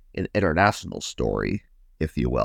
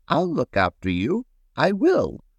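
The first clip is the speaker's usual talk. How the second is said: kindly promise, lifting higher; 9 semitones higher than usual. A narrator's reading. Old broom promises to look after paintbrush, kindly. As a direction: reassure with a lightly voiced old broom. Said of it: "he heard a kind voice".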